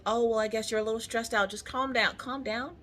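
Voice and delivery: hushed, lifted "calm down" delivery; soothing nurse. Retold or imitated. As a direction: imitate a nurse gently calming a patient. Retold nurse soothing the stressed patient.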